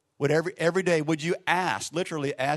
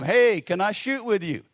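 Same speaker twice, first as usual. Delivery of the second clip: raised, higher-pitched call to a stranger; mock yell across the gym; 5 semitones higher, 3 dB louder than usual. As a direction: imitate someone hollering over, without a full shout. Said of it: "you hear somebody yell across the gym".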